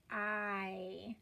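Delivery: "I" said as a long vowel, like "eye"; long I sound. Shown as a demonstration. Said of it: "count on that Y to say".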